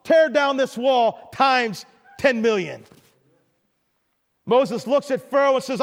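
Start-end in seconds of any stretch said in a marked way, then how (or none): 0.0-2.8 booming, slow mock shout. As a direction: shout it like a grand speech. Mock famous speech shout.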